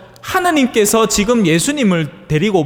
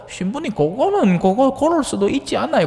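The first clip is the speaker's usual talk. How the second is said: arguing listener; 5 semitones higher than usual. Retold or imitated. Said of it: "하면서 막 따집니다".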